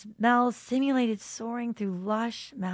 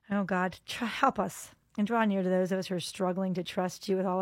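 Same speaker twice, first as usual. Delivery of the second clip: prayer. Acted. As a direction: pray gently to God. Closing prayer.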